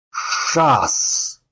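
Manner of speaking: sharp shouted chant; loud cry. Acted. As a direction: shout the rune word. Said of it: "громко выкрикнул Таблеткин".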